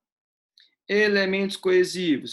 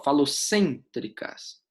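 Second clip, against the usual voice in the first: falocêntricas said slowly, leaning on the stressed syllable cên; much slower than usual. Shown as a demonstration. Teacher showing students where falocêntricas carries its stress: slow, leaning on cên. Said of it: "a sílaba tônica".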